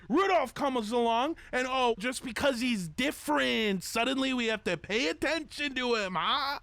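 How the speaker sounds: high, indignant protest; indignant outburst. Acted. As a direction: bristle with wounded pride. Jealous reindeer insists he's famous.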